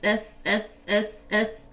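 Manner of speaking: hissing S sounds; drawn-out s like a snake. Retold or imitated. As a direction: stretch each S into a hiss. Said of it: "he hitting me with the S".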